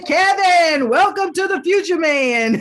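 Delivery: high, loud, joyful call-out; excited shout. Real, not acted. Guest cheering the host during laughter, excited shout. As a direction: cheer him on with real delight.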